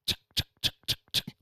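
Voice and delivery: voiceless choppy clicks, "chick, chick"; mock choppy language noises; choppy mock sounds. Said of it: "the Navajo language is kinda choppy".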